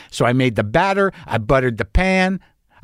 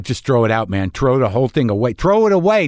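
lightly put-on Queens accent; 2 semitones lower than usual. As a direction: toss it off with a touch of Queens. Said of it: "I even said it in that accent".

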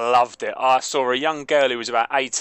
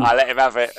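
playful shout. Real, not acted. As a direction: let it rip with a laugh. Jokey football rivalry rant.

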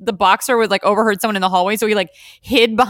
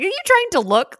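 high, incredulous question; mock disbelief; 11 semitones higher than usual. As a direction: call out the cheater in mock disbelief. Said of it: "I was like".

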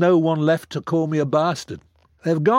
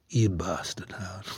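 softer, lower, intimate; tender low mock insult; 5 semitones lower, 8 dB quieter than usual. A singer speaking to him across the table, soft and intimate. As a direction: say it looking deep into his eyes. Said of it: "looked me deep in the eyes and said".

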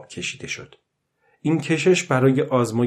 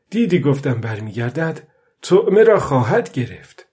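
put-on old fisherman, pleased and eager; told-you-so delight; pleased old man. Old man pleased the fish came back, eager.

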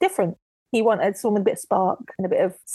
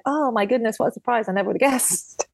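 mildly sarcastic feigned astonishment; sarcastic surprise. Retold or imitated. Sweetheart answering the prince's reveal, sarcastic mock surprise. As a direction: act surprised without quite meaning it. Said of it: "That sounds really sarcastic".

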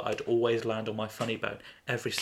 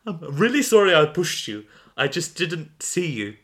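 character apology; 4 semitones higher, 4 dB louder than usual. Acted. Acted story dialogue, apology.

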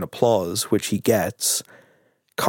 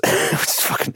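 whisper; much slower than usual. Retold or imitated. Jackson whispering to Tim Roth.

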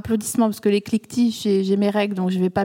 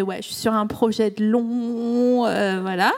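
café Parisian; slower than usual. Retold or imitated.

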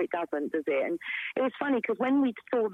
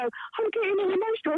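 much higher, self-mocking retelling; mock emotional; 12 semitones higher than usual. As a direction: imitate yourself getting choked up. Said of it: "there's a bit where I go".

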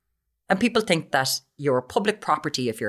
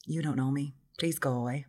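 muttered retort; 4 semitones lower, 11 dB quieter than usual. Retold or imitated. Retorting quietly.

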